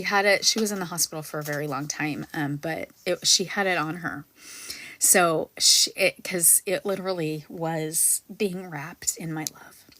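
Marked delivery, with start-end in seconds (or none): 5.0-9.8 choked-up near whisper; holding back tears, barely voiced; teary-eyed. Real, not acted. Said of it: "get a little teary-eyed with that".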